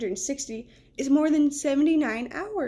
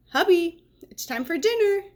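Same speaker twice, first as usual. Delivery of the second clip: high, louder call from another room; 6 semitones higher, 4 dB louder than usual. Acted. Mom calling her son to dinner, called out.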